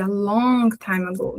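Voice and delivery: "long" drawn out with feeling; intonation on LONG. Shown as a demonstration. Teacher showing how long ago it was, stress on "long". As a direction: put your will into a slow, stretched "long". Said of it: "a gente coloca entonação".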